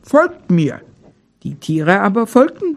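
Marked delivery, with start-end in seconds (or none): 0.0-0.8 a lightly voiced grumbling bear; bear growling. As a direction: refuse them like a stubborn bear. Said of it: "Der Bär aber grollte".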